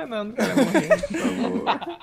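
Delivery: laughing, begging to be saved; laughing plea. Acted. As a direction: beg through laughter, slowly at the end. Downed, begging for revive.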